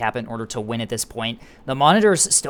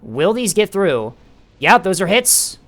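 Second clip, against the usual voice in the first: higher, louder and slow; excited; 4 semitones higher, 4 dB louder, slower than usual. Real, not acted. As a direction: hang on each hit. Missile strike called live.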